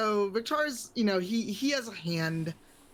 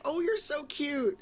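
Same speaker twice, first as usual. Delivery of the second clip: higher-pitched cooing; gushing over cuteness; 7 semitones higher than usual. Acted. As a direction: coo as if at a doll. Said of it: "go into, like".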